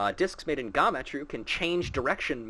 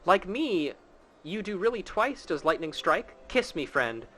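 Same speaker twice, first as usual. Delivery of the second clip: lightly voiced quest giver, higher at start; hammed-up NPC reading; 4 semitones higher than usual. Streamer reading quest riddle to chat, lightly voiced. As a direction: read the riddle like a playful game character.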